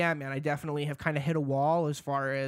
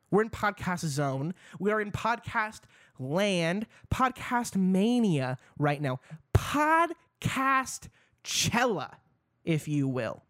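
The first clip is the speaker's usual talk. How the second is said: hype voice; 4 semitones higher, slower than usual. Acted. Hyping up the podcast intro.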